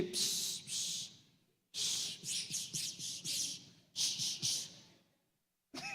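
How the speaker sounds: repeated voiceless hissing psst; mimicked psst sounds. Preacher telling church to forget whispering, mimicked psst hisses. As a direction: hiss little bursts, imitating secret talk.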